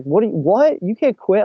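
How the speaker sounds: high, stumbling imitation of disbelief; mock incredulous. Bosses protest to employee that they can't quit, incredulous. Acts out bosses refusing the resignation.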